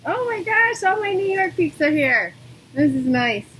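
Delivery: high, loud burst of excitement; delighted surprise. Real, not acted. Yoga teacher spotting New York regulars online, thrilled. Spots familiar students joining online.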